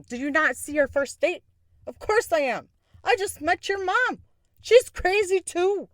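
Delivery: high-pitched mock defiance; hammed-up comeback in a retold quarrel; giddy defiant retort. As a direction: argue back unapologetically, voice riding high. Acting out her giddy retort.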